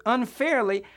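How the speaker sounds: "unfairly" said with deliberate emphasis; weight on every syllable of "unfairly"; stress on unfairly. Shown as a demonstration. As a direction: lean firmly on the word "unfairly". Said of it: "I'm gonna put an emphasis on that word".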